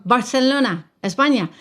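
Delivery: "Barcelona" with a lisped Castilian th, "España" in a Spanish accent. Shown as a demonstration. Naming Barcelona to show his Spain Spanish accent, Castilian lisp. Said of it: "I can speak Spanish with a Spanish accent".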